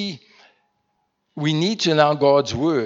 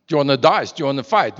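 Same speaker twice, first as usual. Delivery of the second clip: mock challenge; 5 dB louder, much faster than usual. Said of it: "you said hey to someone who's like".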